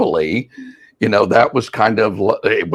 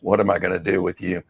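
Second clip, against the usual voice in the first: exasperated; 4 semitones lower, 7 dB quieter, faster than usual. Retold or imitated. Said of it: "shaking her head going".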